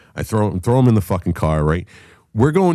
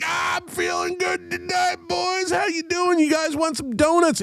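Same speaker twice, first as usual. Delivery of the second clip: very high, strained mock screaming; imitated drunken screaming. Wasted drummer offering cops donuts, mock screaming. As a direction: scream it like a wasted friend, in falsetto. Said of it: "he's fucking screaming on the top of it".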